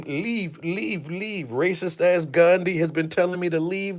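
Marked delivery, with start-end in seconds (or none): 0.0-1.5 mock whisper. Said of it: "has been whispering in my ear".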